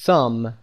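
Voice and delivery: "thumb" ending on m, the b silent. Shown as a demonstration. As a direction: say "thumb" with no b sound at the end. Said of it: "بی تلفظ نمیشه در این کلمه".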